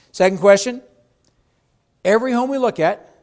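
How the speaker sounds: loud, high and punchy; emphatic announcement. Real, not acted. Agent announcing the second question to trainees, loud. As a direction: call it out to the room.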